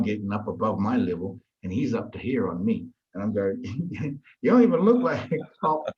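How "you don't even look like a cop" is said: raised, higher retold retort; heated retort. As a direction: re-enact a heated face-off. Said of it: "we were getting really heated now".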